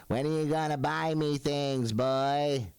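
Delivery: lightly voiced nagging mother; hint of a mother calling her boy; demanding mother. Mother phones wanting things bought, lightly imitated demand. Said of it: "I'll get a call from my mother".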